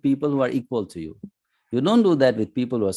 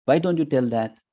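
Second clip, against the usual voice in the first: quick, higher playful jab at a friend; joking tease; 6 semitones higher than usual. Retold or imitated. Arjuna teasing his friend Krishna in public, playful jab. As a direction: rib him like an old buddy. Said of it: "just in joking manner".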